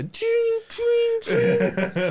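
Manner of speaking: very high ringing chime noise; sing-song high-pitched effect; imitated sparkle sound. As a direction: squeal out a tiny high ping.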